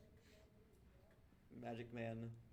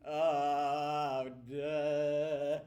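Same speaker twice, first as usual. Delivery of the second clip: louder dopey goblin voice; dumb goblin; 3 semitones higher, 13 dB louder than usual. Acted. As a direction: say it like a dazed simpleton.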